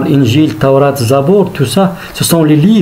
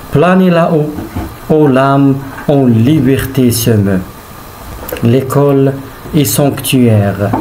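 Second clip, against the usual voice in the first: poem recitation. Acted. Teacher reads a Hugo poem to pupils, measured recitation. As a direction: recite line by line, stretching each phrase and letting it fall.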